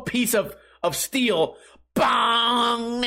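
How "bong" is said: imitated metal bong. Skateboard hitting hollow steel.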